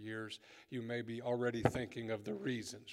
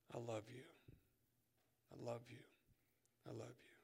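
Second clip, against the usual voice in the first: softer each time down to a whisper; fading declaration; 9 dB quieter than usual. Acted. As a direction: let each one fade until whispered. Peter's threefold love, fading.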